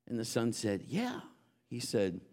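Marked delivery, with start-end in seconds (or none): 0.9-1.2 put-on little boy voice.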